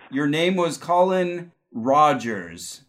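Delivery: slow, drawn-out psychic reveal; psychic hotline. Acted. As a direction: spell out "your name was Colin Rogers" slowly, like a vision. Psychic reveals a past-life name.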